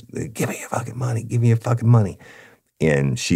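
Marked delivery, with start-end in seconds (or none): 0.0-2.2 high, imitated robber demanding money; loud verbal commands. Robber ordering the clerk for cash, imitated command. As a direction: snap the demand at her, retold. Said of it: "giving her the loud verbal commands".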